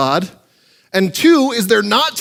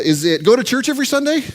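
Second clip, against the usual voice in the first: mock wrong guess; 5 semitones higher, faster than usual. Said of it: "No, that's not right".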